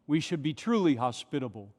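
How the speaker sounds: normal talking voice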